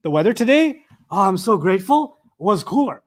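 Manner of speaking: "oh, I'm so grateful" burst in with relief; bright relieved aside inside the sentence; enthusiastic interjection. Shown as a demonstration. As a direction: gush the aside mid-sentence. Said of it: "sometimes you talk like this".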